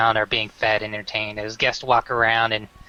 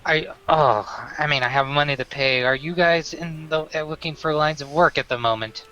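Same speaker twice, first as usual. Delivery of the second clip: put-on drunk; 2 semitones higher than usual. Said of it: "he's slurring his words".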